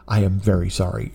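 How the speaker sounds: put-on low, subdued accented apology; apologetic Armenian accent. Armenian wife apologising to the Uber driver, subdued accented apology.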